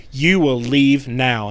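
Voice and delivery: slow, measured retold command; each word spaced out, lightly voiced menace; possessing voice. Possessing spirit ordering investigator out, slow measured command. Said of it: "it is not her voice".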